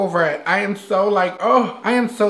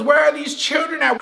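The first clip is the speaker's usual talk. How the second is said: mock outrage; 6 semitones higher than usual. Mimi rants about missing kids.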